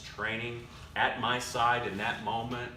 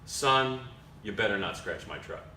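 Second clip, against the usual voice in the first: put-on a lower, stern old grandfather warning his grandson; grandfather's warning; 5 semitones lower than usual. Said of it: "turns to me and says".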